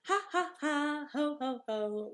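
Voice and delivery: high gleeful laughter; pigs laughing. A narrator's reading. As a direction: laugh like you won. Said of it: "laughed the two little pigs".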